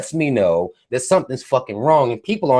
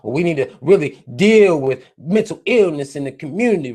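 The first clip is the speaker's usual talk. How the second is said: mock concerned official; 3 semitones higher than usual. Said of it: "talking about".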